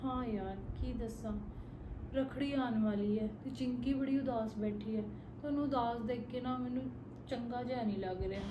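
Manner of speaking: sad and low. Acted. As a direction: let the sadness pull the voice down softly. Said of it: "ਅੱਜ ਬੜੀ ਉਦਾਸ ਲੱਗਦੀ ਆ".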